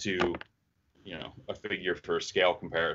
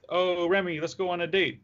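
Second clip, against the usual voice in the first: high southern belle voice, flirting; happy, lovestruck Rogue with a southern twang; flirty Rogue southern accent; 10 semitones higher than usual. Acted. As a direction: sweet-talk Remy with a southern twang. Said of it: "you have the best Rogue accent".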